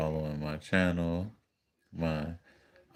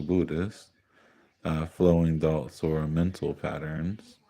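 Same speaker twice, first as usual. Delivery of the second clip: reading out notes; 3 dB louder than usual. Real, not acted. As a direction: read out a glossary, pausing after each term. Reads out a list of concepts.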